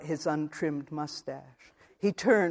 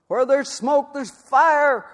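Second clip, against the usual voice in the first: a much higher, louder bellow in a rough voice; 10 semitones higher, 11 dB louder, slower than usual. Acted. Husband bellowing an accusation at his wife in the road, full-throated. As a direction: roar it at her. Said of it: "bellowed Robert F".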